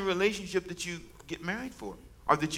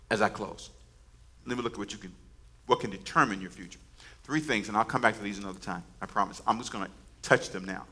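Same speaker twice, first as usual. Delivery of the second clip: much softer, almost whispered wind-down; hushed closing; 8 semitones lower, 8 dB quieter than usual. Real, not acted. Preacher softly opens his closing points. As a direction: pull them in close and quiet.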